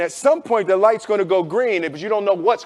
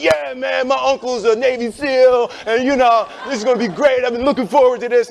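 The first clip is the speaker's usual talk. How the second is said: fake-confident friend; 4 semitones higher than usual. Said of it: "They're like".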